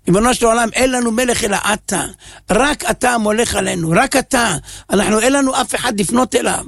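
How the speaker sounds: pleading prayer building to a tearful cry; heartfelt prayer growing in fervor; fervent prayer. Acted.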